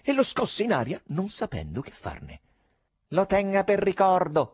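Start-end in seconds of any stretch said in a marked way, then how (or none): 3.1-4.5 shout. A narrator's reading. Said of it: "gridò Fagotto".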